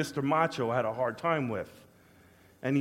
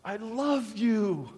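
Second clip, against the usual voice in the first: tender declaration; 5 semitones higher, much slower than usual. Retold or imitated. God's loving answer, retold.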